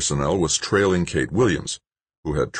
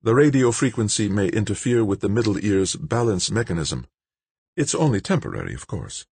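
higher-pitched character voice for a technical caution; explaining technician character; 6 semitones higher than usual. A narrator's reading. Expert warning Dan of the ear device's side effects, higher character voice.

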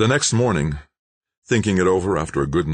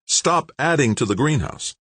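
pitched up and urgent, pleading for the planet; with some emotion; 10 semitones higher than usual. A narrator's reading. Scientist urging a TV interviewer, with emotion. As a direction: let the feeling break through. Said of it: "replied with some emotion".

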